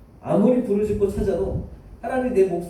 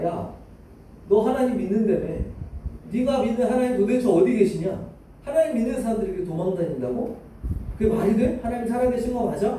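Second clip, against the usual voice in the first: mildly mocking, higher-pitched challenge; imitating mockers; 5 semitones higher than usual. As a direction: taunt like a scoffer questioning someone's faith. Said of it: "막 조롱하는 거예요".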